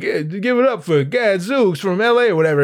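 throwaway stage introduction; offhand emcee. Retold or imitated. Host brings on an unknown act, offhand.

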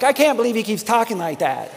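amused mock disbelief; laughing mock disbelief. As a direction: play the skeptic in the pews, chuckling. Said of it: "Some of you are like".

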